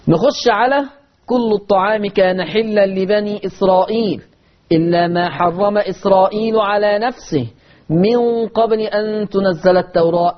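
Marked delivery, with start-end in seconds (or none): 1.3-10.4 Quran recitation. Shown as a demonstration. Teacher reciting the verse to students, chanted.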